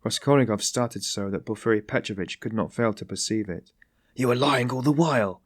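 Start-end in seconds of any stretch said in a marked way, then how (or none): 4.2-5.4 angry cry. A narrator's reading. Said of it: "he cried".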